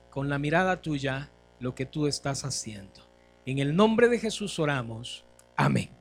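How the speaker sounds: earnest prayer led from the pulpit; public prayer. Real, not acted. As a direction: pray aloud for the congregation in measured phrases. Leads the congregation in prayer.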